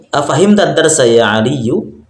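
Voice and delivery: Afahim tadarsa ya Aliyu said slowly, rising at the end; slow question reading. Shown as a demonstration. Teacher reading the example question slowly to students. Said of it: "Lihat di bawah".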